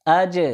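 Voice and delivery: اج with the ج released in a short echoing bounce; qalqala bounce. Shown as a demonstration. Teacher drilling students, اج with a bouncing ج. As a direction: let the ج in اج bounce. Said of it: "یعنی جنبش پیدا ہوگی".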